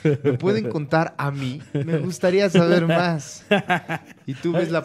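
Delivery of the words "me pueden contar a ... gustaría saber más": hammed-up politician voice. Comic Meade voiced reading comic.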